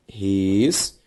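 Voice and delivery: "responsável" split into res, pon, sá, vel with long pauses; syllable by syllable. Shown as a demonstration. Teacher doing syllable separation, "responsável" slowly in pieces. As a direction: dictate "responsável" one isolated syllable at a time. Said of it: "Ao fazer a separação silábica".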